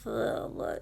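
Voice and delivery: low, mumbled slurred groan, half-imitated; mock slurred grunts; imitating slurred speech. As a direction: slur it like a drunk, low and thick. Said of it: "I was slurring my words".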